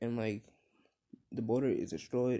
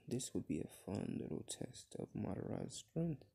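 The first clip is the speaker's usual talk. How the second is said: hushed, voiceless murmur to himself; under his breath; 8 dB quieter than usual. A narrator's reading. Kogen grins and says to himself about testing Madara, under his breath. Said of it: "he says under his breath".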